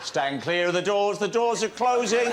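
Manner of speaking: train station announcement. Pretend. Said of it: "this is my only speaking bit".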